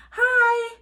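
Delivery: high, loud called hi; calling out. A narrator's reading. Girl calling again to the pteranodon. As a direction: call down again to the creature. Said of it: "Annie called again".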